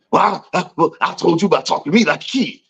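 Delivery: high, fast whiny retort; mock aggrieved coworker. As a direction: complain like a sulky employee. Coworker's complaint voiced.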